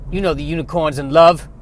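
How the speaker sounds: put-on Southern old farmer. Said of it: "has a southern bent".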